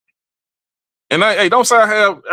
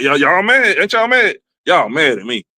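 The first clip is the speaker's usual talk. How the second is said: ordinary talk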